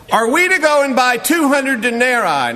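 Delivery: high, snide question; sarcastic disciples. Retold or imitated. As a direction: needle him with the question. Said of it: "they're being sarcastic".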